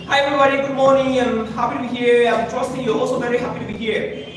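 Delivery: rushed flat monotone greeting; the wrong way, flat and hurried; monotone, too fast. Shown as a demonstration. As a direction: rattle it off in one flat tone. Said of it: "How was A? Monotone. Too fast".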